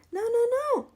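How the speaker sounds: high, loud triple no; bossy rooster cutting in; emphatic no. A narrator's reading. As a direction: stop them with a loud no.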